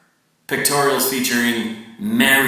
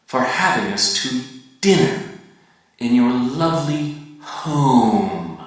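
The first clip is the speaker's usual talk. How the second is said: polite dinner guest. Retold or imitated. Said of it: "only people who share the values".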